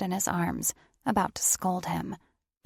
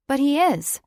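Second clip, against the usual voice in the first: loud, high insistence; insistent; 8 semitones higher, 8 dB louder than usual. A narrator's reading. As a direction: insist over him. Insisting in argument.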